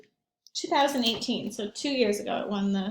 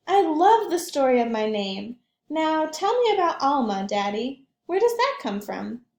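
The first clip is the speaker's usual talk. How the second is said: put-on little girl voice; 4 semitones higher, 6 dB louder than usual. Child Alma asks her father.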